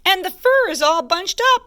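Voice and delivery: lightly played indignant bear; huffy mama bear. A narrator's reading. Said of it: "she huffed".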